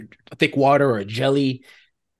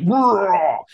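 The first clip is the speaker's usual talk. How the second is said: mock roar; 6 semitones higher, 3 dB louder than usual. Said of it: "it goes like".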